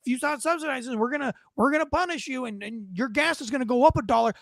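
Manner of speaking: lightly voiced Canadian official threatening; mildly hammed-up warning; mock threat. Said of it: "the only pawn you have".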